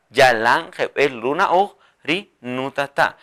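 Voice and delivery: phrase spoken slowly and evenly; slow dictation. Shown as a demonstration. Teacher models the full sentence slowly. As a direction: take it slowly. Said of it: "Así".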